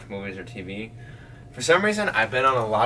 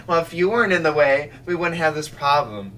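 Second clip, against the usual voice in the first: raised, defensive retort; arguing back; 4 semitones higher, 4 dB louder than usual. Retold or imitated. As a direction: fire back at them. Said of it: "I'm like".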